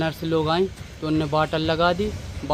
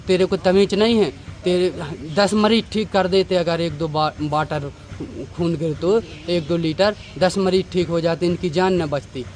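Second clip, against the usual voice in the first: mildly raised, scolding doctor's voice; retold yell. Son retelling the doctor scolding him, mildly raised yell. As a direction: imitate the doctor shouting at you, half-strength. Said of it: "चिल्ला के doctor साहब बोले".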